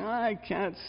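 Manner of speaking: high, slow, strained plea; exasperated Moses. Acted. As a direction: pitch pushed up in weary desperation. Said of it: "Moses is just saying".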